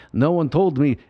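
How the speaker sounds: lightly voiced Hungarian horror-actor impression; a hint of old movie vampire accent; Bela Lugosi. Imitating an actor complaining by phone, light Lugosi voice. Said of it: "Ed Wood voice of Bela Lugosi".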